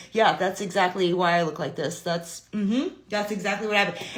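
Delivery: playing along straight-faced; so serious. Kid backing up mama's tale, mock serious. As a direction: solemnly back up the tall tale, holding in a laugh. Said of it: "I'd be, like, so serious".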